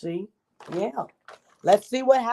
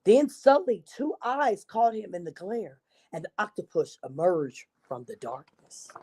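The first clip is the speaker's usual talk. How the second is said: put-on lively read-aloud for children; storybook narration; 2 semitones lower than usual. A narrator's reading. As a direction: tell it like a picture book to a class. Reads picture book to children.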